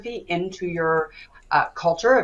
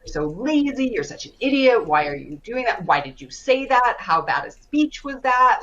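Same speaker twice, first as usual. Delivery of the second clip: imitating a higher, scolding inner voice berating herself; mock the nagging voice in your head, pitched up; harsh inner critic; 5 semitones higher than usual. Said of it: "I'd be like".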